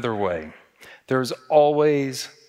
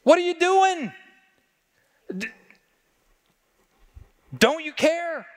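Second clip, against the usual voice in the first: shouting over the storm; 13 semitones higher than usual. Retold or imitated. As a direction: yell it at Jesus over the roaring wind. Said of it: "maybe they were shouting at Jesus over the roar".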